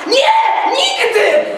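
high, loud cry of no; loud refusal. A narrator's reading. Tadeusz crying out to Telimena, refusing loudly. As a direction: shout the refusal at her. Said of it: "zawołał Tadeusz".

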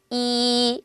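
이 held steady; Chinese i. Shown as a demonstration. Teacher models 이 for learners, clear and steady. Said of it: "한번 읽어볼까요".

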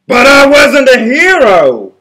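loud, slow pleading protest; protesting wolf. A narrator's reading. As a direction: insist you weren't the hero.

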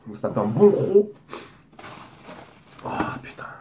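chewing while talking; eating burger while speaking; mouth full. Real, not acted. Seen 3: Fresh-bitten burger in hand; mouth working, licks finger mid-phrase.

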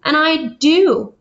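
slow, sad little admission. Acted. Franklin tells his parents sadly. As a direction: let it sink, slowly and sadly. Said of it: "said Franklin sadly".

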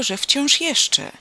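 "wciąż jeszcze" high, loud and very slow; emphatic amazement. A narrator's reading. Amazed neighbour stresses the phrase. („wciąż jeszcze” wysoko, głośno, przeciągle)

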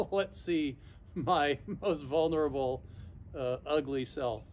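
laughing through words. Real, not acted. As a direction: laugh while saying it. Laughs while admitting vulnerability.

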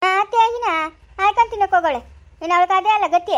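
put-on mother-in-law snapping bitterly about the child; sharp retort. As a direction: bite back with scorn. Mother-in-law's bitter mocking retort.

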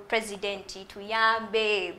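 very slow imitated plea to the president; lightly voiced plea, very slow; national outcry. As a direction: drag out the cry for help. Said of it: "those national outcries".

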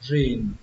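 "rìn" isolated with a falling tone; teacher models "rìn"; last syllable demo. Shown as a demonstration. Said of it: "âm cuối cùng là âm rìn".

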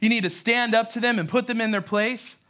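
rally him to confront them; acted, insistent instruction; mock urging. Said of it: "Paul doesn't tell Timothy".

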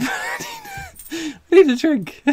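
very high, slow, laughing through it. Real, not acted. Collector laughing at his absurd luck, high laughing plea. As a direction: gasp it out between laughs.

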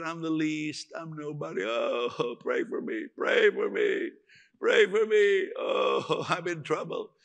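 mock pleading Gideon, rising on pray for me; hammed-up wail of a man feeling worthless; mildly acted lament pleading for prayer; whiny self-pity. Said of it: "some people still talk like that".

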